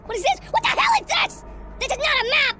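shocked and confused; alarmed outburst. Real, not acted. Confused by odd object.

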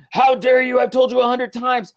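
hammed-up angry parent; mock scolding. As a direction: scold the kids for the walls. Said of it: "getting mad at my kids".

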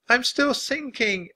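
high, drawn-out wail of distress; plaintive high cry for help. A narrator's reading. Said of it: "Annie wailed".

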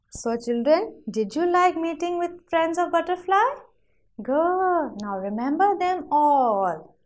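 sing-song classroom delivery with stretched key words; lilting children's teacher voice; teacher to young children. Shown as a demonstration. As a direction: present it to little ones, lilting.

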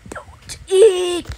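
loud squeal on EAT. Pretend. Playing with toy numbers, squealed. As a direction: squeal the last word out.

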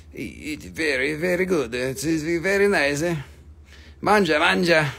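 hammed-up Italian market seller accent; broken English in a mock Italian accent; put-on Italian accent. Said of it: "all the accents".

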